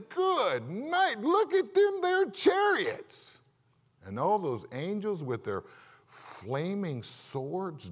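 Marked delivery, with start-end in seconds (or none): 0.1-3.4 much higher, louder, slow comic amazement; awestruck exclamation. Retold or imitated. Young servant seeing fiery chariots, hammed-up awe. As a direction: ham it up like a gawking yokel. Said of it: "He says".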